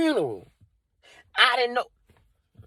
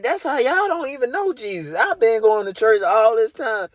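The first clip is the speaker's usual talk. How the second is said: pitched way up, indignant rant at the congregation; outraged disbelief; 4 semitones higher than usual. Retold or imitated. To churchgoers who never told him about Jesus, high indignant squeal. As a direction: squeal out the betrayal, voice climbing high. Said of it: "I'm like".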